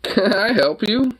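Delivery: high slow cooing question. Real, not acted. Owner cooing slowly at dog, high baby talk.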